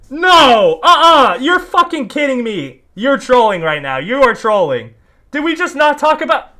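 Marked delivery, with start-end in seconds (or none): 0.1-4.9 high, loud no way; outraged shouted denial; incredulous outburst. Real, not acted. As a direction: yell it in real disbelief. Refusing to believe the claim.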